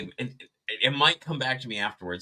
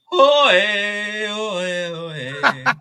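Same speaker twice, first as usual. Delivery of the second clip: high, loud stunned stammer; awed gasps; 8 semitones higher, 6 dB louder, much slower than usual. Retold or imitated. Starstruck friend gasping at ginger Jesus. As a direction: gasp in awe at a vision.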